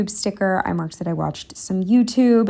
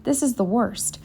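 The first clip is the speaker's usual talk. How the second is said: breathless, panting between words; out of breath; 7 semitones higher than usual. Real, not acted. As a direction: speak winded from the walk. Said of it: "out of breath as always".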